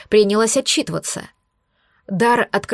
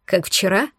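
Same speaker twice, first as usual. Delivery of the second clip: calm question; 2 semitones lower than usual. Acted. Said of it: "уже совсем спокойно спросил он".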